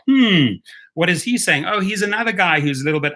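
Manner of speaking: lightly voiced puzzled executive; mock puzzled company voice. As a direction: play the company boss squinting at the screen. Voicing Uber noticing the channel.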